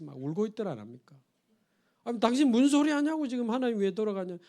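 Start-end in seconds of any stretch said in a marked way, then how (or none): 2.0-4.4 startled question. Retold or imitated. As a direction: jump at her words in disbelief. Luther startled at crying wife. (깜짝 놀라 되묻듯)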